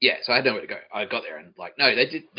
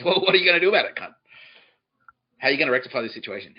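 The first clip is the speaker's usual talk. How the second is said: high, loud challenge; mock confrontational demand; 4 semitones higher, 6 dB louder, faster than usual. Comic demands Joe fix what he did, mock confrontation. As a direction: press him hard, voice raised.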